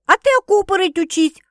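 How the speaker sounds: high, loud bark. A narrator's reading. Sister urging her to fight back, barking. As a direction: bark it like an order. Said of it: "рявкнула Светка".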